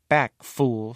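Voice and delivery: head cook snapping at the jester; cook's warning. Acted. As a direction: warn him off the king's lunch. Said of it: "said Bubble, the head cook".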